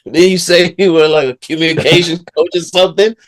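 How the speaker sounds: put-on high, loud, laughing through the words in an Aussie accent; giggly mock Aussie teasing. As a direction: crack up mid-line as the Aussie.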